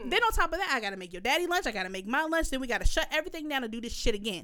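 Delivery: retold angry rant, emphatic and swinging in pitch; pissed-off telling-off. Mother telling off child who called her lazy, pissed-off rant. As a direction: act out a mother reading her child the riot act. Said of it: "I instantly got pissed off".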